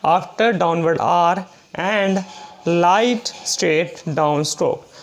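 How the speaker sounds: dictates the English rule very slowly, word by word; very slow rule reading. Shown as a demonstration. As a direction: spell out the rule at dictation pace. Teacher reads next rule aloud. (बहुत धीरे-धीरे नियम लिखवाना)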